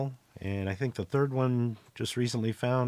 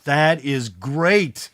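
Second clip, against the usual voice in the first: dead serious; 4 semitones higher, 7 dB louder than usual. Acted. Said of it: "looks at you dead serious and goes".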